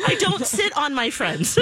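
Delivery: hint of little-kid earnestness; three-year-old. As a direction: imitate a preschooler reciting a rule. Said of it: "And then he goes".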